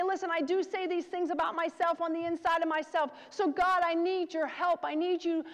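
a preacher voicing a humble personal prayer to the Lord; modeled prayer. Shown as a demonstration. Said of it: "and we say".

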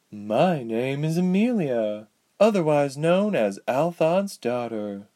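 lightly voiced cold sorceress introducing herself; a hint of a calm villainess. Amelia voiced higher.

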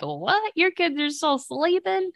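high, incredulous friend's gasp of disbelief; a friend aghast that the kids still sleep; shocked friend. Retold or imitated. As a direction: play the stunned friend who can't believe it. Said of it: "she would be like".

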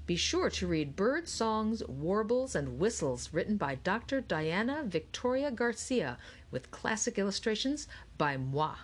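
lightly voiced showman artist, lilting up and down; showy Audubon plug. Audubon tells visitors to read his illustrated book, lightly voiced plug. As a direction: lightly play a self-promoting naturalist.

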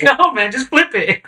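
high, laughing delivery; telling his friend to just flip the burger, laughing; laughing through words. Real, not acted. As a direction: say it while cracking up. Laughing retelling of punchline.

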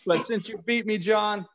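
put-on wrestling promo in a New York accent. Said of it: "do a promo in a New York accent".

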